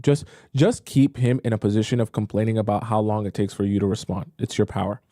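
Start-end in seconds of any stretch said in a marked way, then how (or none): none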